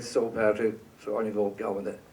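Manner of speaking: a lightly voiced gruff director, unhurried; Brian impression. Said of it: "excuse my terrible Brian impersonation".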